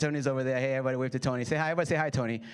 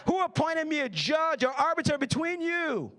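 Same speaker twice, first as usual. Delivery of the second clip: higher, indignant challenge; exasperated; 5 semitones higher than usual. Acted. Jesus rebuking the man who interrupted, mock exasperated. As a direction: toss it back as an exasperated question.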